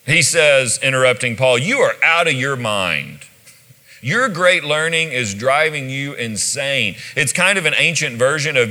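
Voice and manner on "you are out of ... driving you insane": mildly hammed-up outburst, pitched up; exasperated outburst. Festus pops and interrupts Paul, acted exasperated outburst. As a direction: blurt it like he has reached his limit. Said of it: "reaches this point where he pops".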